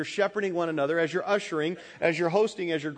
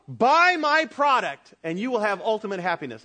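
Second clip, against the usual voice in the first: hammed-up commercial announcer; mock ad pitch; 4 semitones higher, 5 dB louder than usual. Preacher parodying a TV ad promise, hammed-up pitch. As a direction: sell it like a TV ad. The premise of every ad.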